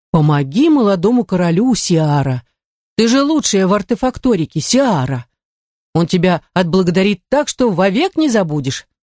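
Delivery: lightly mimicked wheedling curator; mocking her curator. Heroine parroting her curator's plea, mildly mocking. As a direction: mimic the curator's grand promises in mild mockery. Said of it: "передразнила своего куратора".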